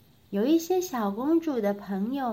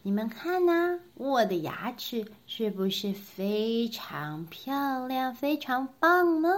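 bossy little princess; 3 semitones higher than usual. Acted. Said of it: "小公主说".

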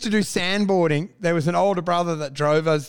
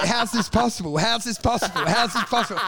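laughing disbelief; 4 semitones higher than usual. Retold or imitated. Retelling the shoe flying.

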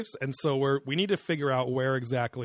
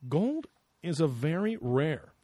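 put-on Childress. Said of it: "our first Childress chime in here".

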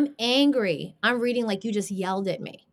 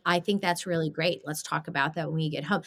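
calm voice message; 4 semitones lower than usual. Shown as a demonstration. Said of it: "they can hear my tone".

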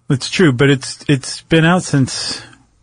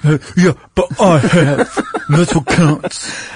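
laughing; 4 semitones higher, slower than usual. Real, not acted. Joking self-importance, laughing.

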